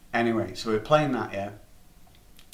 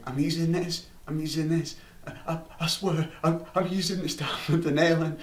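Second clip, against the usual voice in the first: put-on pleading kid; 6 semitones higher than usual. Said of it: "he was like".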